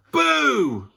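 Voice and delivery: high loud sudden BOO; spring the trap with a boo; ambush boo. A narrator's reading. Animals ambush the cub.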